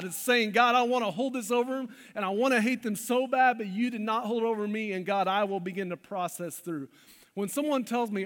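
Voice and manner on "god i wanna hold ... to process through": crying out to God. Retold or imitated. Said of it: "It's crying out".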